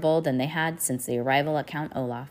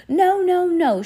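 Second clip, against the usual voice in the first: put-on much higher, louder toddler shout; baby shout; 13 semitones higher, 7 dB louder, slower than usual. A narrator's reading. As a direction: shriek it like a baby. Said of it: "shouted Sonny".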